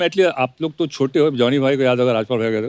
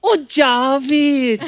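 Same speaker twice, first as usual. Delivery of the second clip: surprised laugh; 10 semitones higher, much slower than usual. Retold or imitated. Pooja recognizes Javed, laughing.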